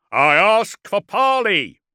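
high, slow, carrying shout. A narrator's reading. Warlord calls to the dreadnought for parley, shouting. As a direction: shout it across the battlefield. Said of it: "shouted Calcator".

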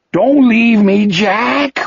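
a sobbing plea, voice way up; weeping plea. Acted. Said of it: "Wolf wept".

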